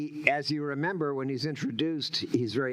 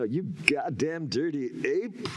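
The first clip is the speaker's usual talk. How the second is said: slow, drawn-out vowels; Charlton Heston; 2 semitones higher, slower than usual. Retold or imitated. Actor quotes Heston's line as inspiration, slow drawn vowels. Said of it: "Charlton Heston".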